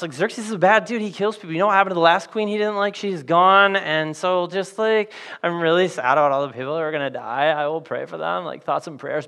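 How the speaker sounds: lightly voiced breezy modern girl; laid-back brush-off, Yo Mordecai; casual Esther. Esther blowing off her uncle, casual and dodging. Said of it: "Esther goes".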